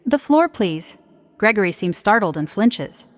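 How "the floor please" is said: higher-pitched, cutting request; sharp as glass; sharp, piercing. A narrator's reading. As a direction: cut through the room for attention. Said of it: "Silent and as sharp as glass, my voice pierces the air".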